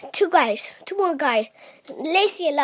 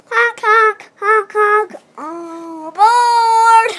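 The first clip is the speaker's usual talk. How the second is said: silly clown; 4 semitones higher, 6 dB louder, slower than usual. Pretend. Child plays a silly vehicle.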